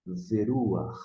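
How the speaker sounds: "Veruar" as one word, RU lifted, falling away; Hebrew pronunciation demo. Shown as a demonstration. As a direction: model "Veruar" slowly with a rasped final h. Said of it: "a pronúncia".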